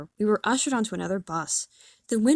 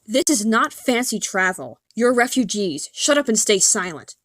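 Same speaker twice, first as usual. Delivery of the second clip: a touch louder, harsh scolding; yelled; 4 dB louder than usual. Retold or imitated. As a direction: scold them like a fed-up driver. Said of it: "he yelled".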